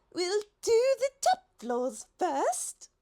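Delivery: high, slow call from above; shouting down. A narrator's reading. The giraffe shouts down to the others below. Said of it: "the giraffe shouted down".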